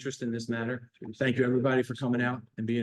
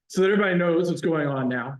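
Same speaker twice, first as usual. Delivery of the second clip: raised, carrying voice; louder for the room; 4 semitones higher, 5 dB louder than usual. Real, not acted. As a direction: project it to the back. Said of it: "Can't hear me?".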